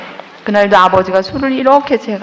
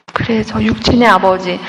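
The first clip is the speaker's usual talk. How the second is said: ordinary talk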